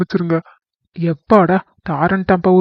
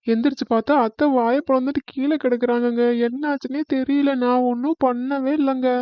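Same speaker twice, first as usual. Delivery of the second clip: tearful; 7 dB quieter than usual. Acted. Wife explaining the collapse to husband, tearful. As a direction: explain quietly through tears. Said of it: "நீ பாட்டுக்கு அழுதுகிட்டே இருந்தே".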